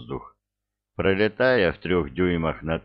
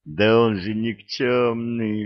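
gleeful yell; 4 semitones higher, 4 dB louder, slower than usual. A narrator's reading. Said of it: "ликующе завопил".

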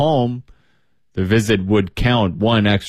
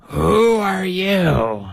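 very slow, high sheep-like bleat; 9 semitones higher, much slower than usual. Acted. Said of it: "she bleated".

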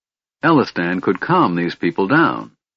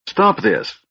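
high kender yell; 10 semitones higher than usual. A narrator's reading. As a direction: shout over the crowd. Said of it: "yelling at the top of his voice".

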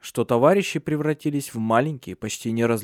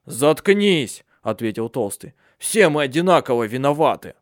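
raised sharp comeback; mild angry retort. Acted. Fatso snaps at the handsome one, mild angry retort. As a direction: shut him up.

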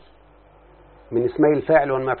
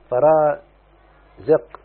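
drawn-out demo; much slower than usual. Shown as a demonstration. Teacher building the plural for students, very slow drawn-out. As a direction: stretch فرازق out very slowly, syllable by syllable.

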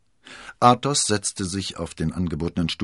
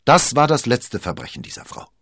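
higher and louder vow of revenge; angry shout; 8 semitones higher, 8 dB louder than usual. A narrator's reading. Athos vowing vengeance on Milady, angry shout. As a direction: swear it out loud. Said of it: "schrie er".

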